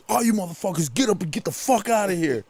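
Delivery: retold angry order. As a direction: act out a cop clearing people out. Retold cop ordering everyone out.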